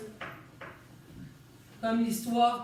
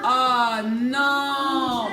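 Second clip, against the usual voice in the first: mock alarm; 9 dB louder than usual. Teacher mock alarm at sound.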